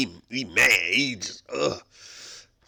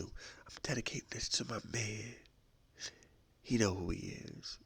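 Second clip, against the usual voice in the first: soft dedication; 11 dB quieter than usual. Acted. Girlfriend dedicating song softly.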